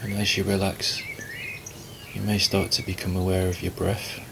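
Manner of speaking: calm, unhurried meditation guidance with long pauses; guided meditation. Acted. Teacher guiding listeners to relax and watch the breath, calm meditation voice. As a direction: ease them gently into stillness, leaving space between phrases.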